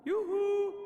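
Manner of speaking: high sing-song call. Acted. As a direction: call out to get attention. Calling out to Death.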